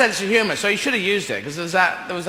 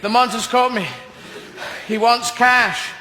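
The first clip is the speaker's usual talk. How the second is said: mock distressed astronaut; 4 semitones higher than usual. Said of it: "Neil doing close-up work".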